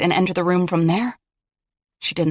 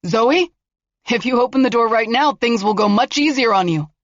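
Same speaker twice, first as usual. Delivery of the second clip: raised, coaxing call through a door; menacing coaxer; 5 semitones higher, 4 dB louder than usual. Acted. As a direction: lure her out with false calm. Killer coaxing through locked door.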